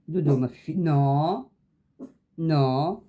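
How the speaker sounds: a sharp, loud no to the dog; firm scolding. Real, not acted. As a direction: stop the dog firmly, raise the voice.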